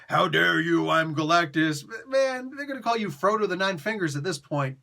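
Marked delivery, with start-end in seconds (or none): 0.1-1.8 indignant villain boast. Retold or imitated. Injured Galactus still acting mighty.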